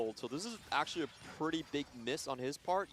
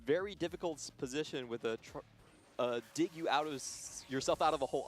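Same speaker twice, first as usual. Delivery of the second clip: tongue-tied, tripping over words; slurring and restarting words; stumbling over words. Real, not acted.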